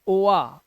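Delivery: ओआ as two vowels, o then aa; split-vowel ओआ; misreading of oa. Shown as a demonstration. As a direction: sound ओआ wrongly as o-aa. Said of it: "ओआ नहीं पढ़ना है".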